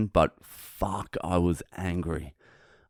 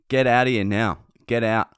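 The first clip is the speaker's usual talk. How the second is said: louder, higher mock command; retold angry order; 3 semitones higher, 4 dB louder than usual. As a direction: reenact ordering someone out. Acted ordering out in quarrel.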